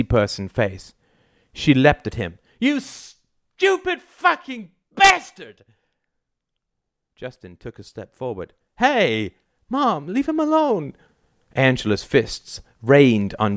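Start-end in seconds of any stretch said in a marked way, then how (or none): 2.6-5.6 very high, slow screech of fury; enraged scream. A narrator's reading. Wife leaps at husband in rage. 8.8-10.9 put-on high-pitched teen plea; alarmed protest. A narrator's reading. Son intervenes in parents' fight.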